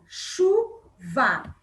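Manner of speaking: Chuva said syllable by syllable, chu-va; split into syllables. Shown as a demonstration. Teacher clapping out Chuva's syllables for pupils. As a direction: clap out Chuva in two beats. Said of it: "Quantas sílabas tem?".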